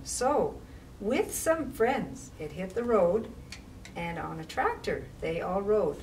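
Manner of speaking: put-on rhythmic read-aloud for children; picture-book reading voice; story narration. A narrator's reading. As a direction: read the rhyme with a bouncing lilt.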